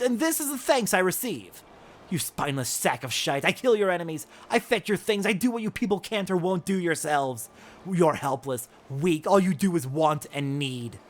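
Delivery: loud, cutting rant at the merchant; furious tirade. Acted. Frey berates the ungrateful merchant, furious. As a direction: tear into him with contempt.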